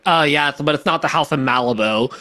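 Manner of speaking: breezy Valley Girl impression. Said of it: "Why were you so good at a Valley Girl voice?".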